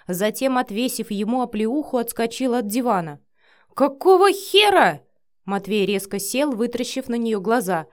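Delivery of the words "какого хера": outraged shout. Acted. Vika slaps him, outraged.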